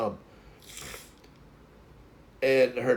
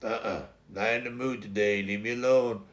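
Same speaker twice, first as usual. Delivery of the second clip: low, surly dog voice; grumpy leave-me-be attitude, understated; Taz; 6 semitones lower, 5 dB quieter than usual. Retold or imitated. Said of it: "And then Taz was like".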